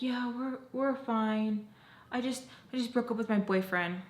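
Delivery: retold starstruck.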